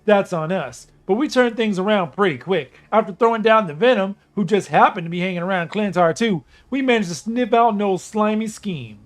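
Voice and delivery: gruff, cocky raccoon voice; a wisecracking space mercenary; Rocket Raccoon. Acted. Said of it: "with Rocket Raccoon talking".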